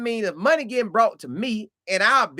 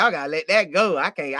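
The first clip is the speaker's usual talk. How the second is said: ordinary talk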